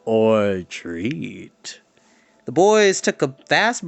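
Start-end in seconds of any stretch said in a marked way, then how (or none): 0.0-1.8 booming farewell question; final shout. Acted. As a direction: call after them teasingly. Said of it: "a final shout from Mountjoy".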